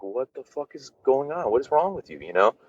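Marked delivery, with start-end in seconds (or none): 0.0-1.5 a mild mock of a panicked dad, higher; imitating dad flipping out. Father confronts son at the bedroom wall, mildly mock alarmed and higher. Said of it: "He was like". 1.5-2.2 a mild mock of a panicked dad, higher; imitating dad flipping out. Father confronts son at the bedroom wall, mildly mock alarmed and higher. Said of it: "He was like".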